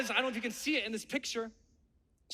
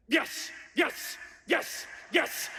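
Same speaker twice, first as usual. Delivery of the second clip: pumping myself up; much slower than usual. Retold or imitated. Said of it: "I'm trying to fire myself up".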